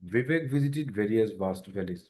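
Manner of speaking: "Vivek visited various vast valleys" very slowly, each v buzzed through the lip; crisp v on every word, stretched out; slow tongue twister drill. Shown as a demonstration. Teacher repeating the drill slowly for learners. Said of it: "এটা বারবার বলতে হবে".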